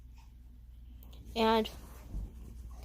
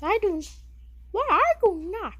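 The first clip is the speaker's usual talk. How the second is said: Jerry insists, higher and louder; mouse voice denial; 4 semitones higher, 4 dB louder than usual. Pretend. Jerry denies the Mickey Mouse comparison, higher and louder. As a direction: protest in a lightly squeaky mouse voice. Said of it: "you kinda sound like Mickey Mouse".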